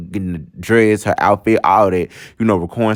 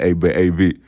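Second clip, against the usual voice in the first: loosely imitating her ex's relaxed talk; Daquan's way of talking; 2 semitones lower than usual. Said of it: "let me tell y'all how he talked".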